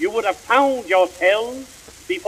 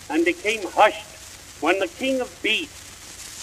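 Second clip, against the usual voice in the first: hushed; 6 dB quieter than usual. Acted. Animals fall silent for lion.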